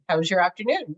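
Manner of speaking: AZURE AFTERNOON run together to sound like "How's your afternoon"; run-together colour name. Shown as a demonstration. Crafter showing Pat what it sounds like, colour name run together as a greeting. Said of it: "it sounds like".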